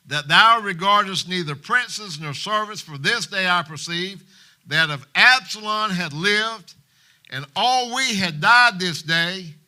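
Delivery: loud, slow, forceful scolding; angry rebuke. Acted. General Joab rebuking King David, loud angry scolding. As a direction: hammer each line at the king. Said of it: "Joab didn't hold back".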